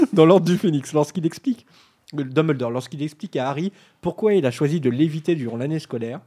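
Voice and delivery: talking around a candy; words muffled by a sweet in the mouth; mouth full. Real, not acted. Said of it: "je mange un bonbon pour de vrai". (la bouche pleine, un bonbon en bouche)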